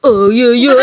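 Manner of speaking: sudden pained yelp; slapped man cries out in pain; cry of pain. Acted. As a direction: yelp as the slap lands. Man cries out after being slapped.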